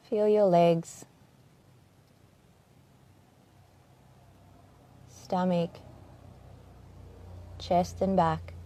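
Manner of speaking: calm, unhurried body-scan voice with long pauses; gentle meditation guide, leaving space after each phrase; guided meditation. Acted. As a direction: ease listeners into their bodies, phrase by phrase.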